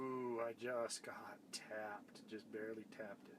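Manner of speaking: hushed whisper at the hole. Real, not acted. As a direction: whisper so the fish stays. Fish taps the line.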